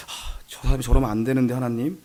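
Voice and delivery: low, very soft aside to God; silent inner plea. Acted. Pastor inwardly telling God about a member, hushed. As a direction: keep it to yourself, quietly. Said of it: "근데 속으로".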